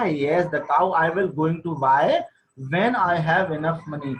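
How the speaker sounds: slow, deliberate reading of the English text; slow story reading. A narrator's reading. Teacher reading the wife's line slowly aloud. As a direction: read each word out slowly to the class.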